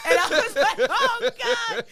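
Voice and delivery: laughing. Real, not acted. Laughing at her own on-set gaffe, high and breathless. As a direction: laugh your way through the line.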